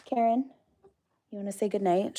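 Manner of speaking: high, sing-song call to a pet. Real, not acted. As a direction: call her name gently up high. Calling a pet to the door.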